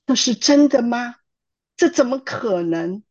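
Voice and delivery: can't believe her ears; daughter-in-law stunned by the apology; disbelief. Retold or imitated.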